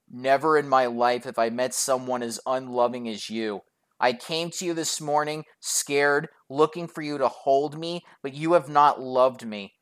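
subdued, solemn imitated lament; mock wounded reproach. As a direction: play the hurt, unloved boyfriend.

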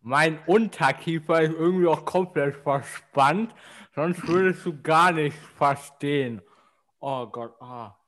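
talking around a cork in mouth. Real, not acted. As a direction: speak with a cork between the teeth. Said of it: "jetzt versteht man gar nichts mehr".

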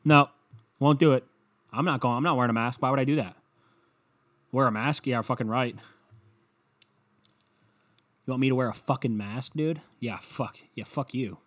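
lightly played defiant guy; mocking an anti-masker, scoffing. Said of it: "some people out there that'd be like".

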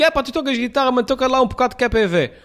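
high, quick teasing request; playful egging on. Retold or imitated. He teases a guitarist to play for him, high playful. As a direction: nudge a guitarist to play for you.

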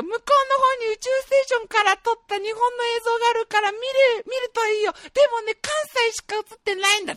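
very high-pitched old man impression. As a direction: play the old guide way up high. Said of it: "その宇宙ステーションにいたおじいちゃんは".

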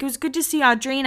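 quick lightly voiced Heidi; voicing Heidi. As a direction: lightly play Heidi's shrug. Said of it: "She's like".

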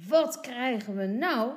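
loud, cross exclamation; angry mother. A narrator's reading. Mother bursts in on the children, angrily. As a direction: scold as a mother catching children out. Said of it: "roept ze boos".

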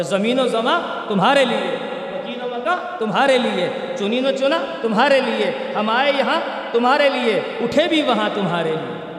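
measured couplets, each refrain given the same lilt; devotional verse recitation. Acted. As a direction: recite the naat verse rhythmically to the congregation. (نعتیہ اشعار کی روانی سے ادائیگی)

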